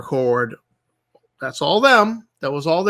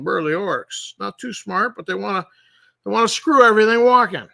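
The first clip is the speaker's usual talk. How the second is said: louder, higher, fast outburst; outraged rant; 5 semitones higher, 4 dB louder than usual. Real, not acted. Ranting to viewers about the orc rewrite, loud and fast.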